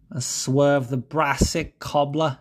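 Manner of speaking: slow hammed-up Scouse; Scouse accent. Shown as a demonstration. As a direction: ham up a Scouse phrase. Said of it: "Probably was terrible".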